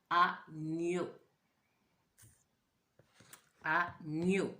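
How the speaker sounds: "agneau" held, gn very audible; test word. Shown as a demonstration. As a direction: give the word slowly to the class. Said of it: "j'entends ou non le son gne".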